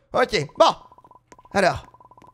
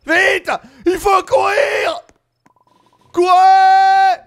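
being chased; 9 semitones higher, 5 dB louder, much slower than usual. Acted. Fleeing wolves, shouting to Patchy.

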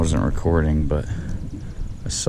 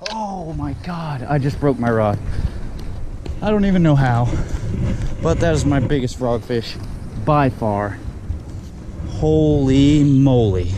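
shaken by a broken rod; stunned surprise; 5 semitones higher than usual. Real, not acted. Rod broke landing big fish.

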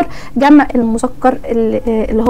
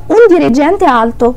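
un dirigente alto spoken very slowly; slow Italian demo; much slower than usual. Shown as a demonstration. A teacher contrasting un dirigente alto, said slowly. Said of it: "تعالى افهمك في مثل تاني".

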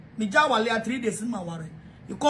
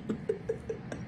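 quiet, high laugh; soft airy giggle, pitched up; 10 semitones higher, 15 dB quieter than usual. Real, not acted. Amused by a viewer's comment, quiet laugh.

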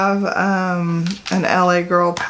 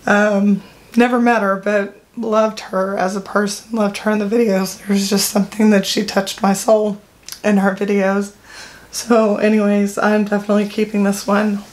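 holding back tears while praising her; choked up with real tears, only slightly; teary. Real, not acted. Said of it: "I am, I'm tearing up".

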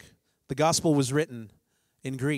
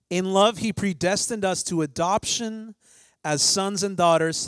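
slow, solemn scripture reading; slower than usual. Acted. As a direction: read it slow and reverent. Reads Ephesians aloud.

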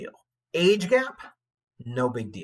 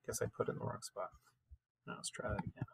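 whisper; 16 dB quieter, faster than usual. Real, not acted. Muttered aside after a mistake.

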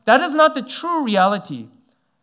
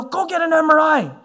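higher, sharp mock-yelled order; retold yell; 7 semitones higher, 4 dB louder than usual. Senior pastor ordering the young pastor, mock yelled. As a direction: bark the order like a stern boss. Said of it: "he starts yelling at me".

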